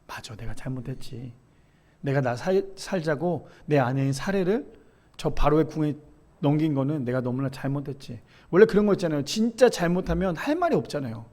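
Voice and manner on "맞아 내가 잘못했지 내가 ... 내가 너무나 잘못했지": quiet self-reproach. Retold or imitated. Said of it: "아브라함도 알았겠죠".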